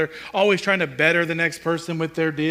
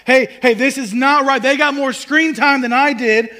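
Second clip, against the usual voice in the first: loud, raised-pitch imitation of an indignant child; kid's shouted protest; 4 semitones higher, 5 dB louder than usual. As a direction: call out the unfairness like a kid. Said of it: "they are very quick to shout".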